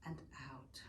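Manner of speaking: breathy whispered exhale cue. Shown as a demonstration. Yoga teacher closing the breathing, soft whisper. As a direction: let the word out on a whisper. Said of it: "final breath cue whispered".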